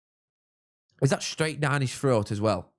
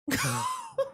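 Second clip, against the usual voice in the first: incredulous laugh; 6 dB quieter than usual. Real, not acted. Laughing at a Hull goal.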